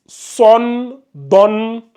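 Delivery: sonne, donne called out high and loud; loud model sounds. Shown as a demonstration. Teacher calls out sonne, donne loudly for the class. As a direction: shout sonne, donne to drill them. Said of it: "ça va donner donne".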